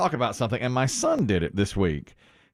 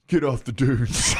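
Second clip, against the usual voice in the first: slow, laughing through it; laughing mock line. Movie character quoted by laughing son, laughing and slow. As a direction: crack up while delivering it. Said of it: "he'd be like".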